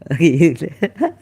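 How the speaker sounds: a short burst of real laughter. Real, not acted. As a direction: laugh at your own blunder. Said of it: "I'm laughing at myself".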